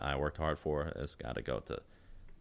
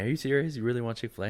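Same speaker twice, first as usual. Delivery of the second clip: incredulous; 7 semitones higher, 3 dB louder, faster than usual. Retold or imitated. Retelling his own disbelief.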